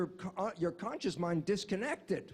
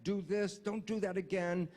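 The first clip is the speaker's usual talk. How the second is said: scolding oneself. Retold or imitated. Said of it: "I say to myself".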